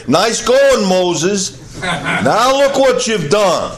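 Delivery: mock sarcastic jab with a laugh. Israelites mocking Moses, sarcastic with a laugh. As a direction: needle him sarcastically, half laughing. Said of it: "You get the sarcasm here".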